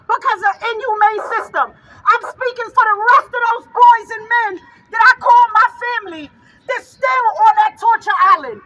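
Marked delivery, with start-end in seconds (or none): 1.7-8.6 fired-up rally cry; rising rally shout. Real, not acted. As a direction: lift it into a shout for the families. Repeated rally line, now shouted.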